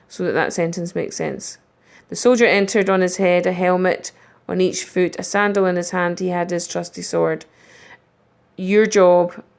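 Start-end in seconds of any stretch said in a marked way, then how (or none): 2.1-7.5 flat, no expression. Shown as a demonstration. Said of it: "I haven't used the right expression".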